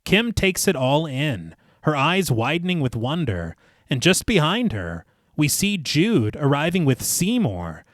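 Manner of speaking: measured, lilting storyteller read; story narration. A narrator's reading. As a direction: narrate the scene phrase by phrase, each falling to a close. Reads the film rewrite aloud.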